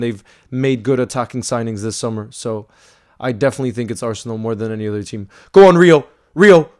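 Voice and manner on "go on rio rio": urging on. Real, not acted. Live play-by-play as Rio attacks.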